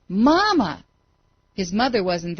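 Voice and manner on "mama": higher, louder, more strained call; desperate scream. A narrator's reading. Falling boy crying again for mother, strained. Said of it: "he screamed".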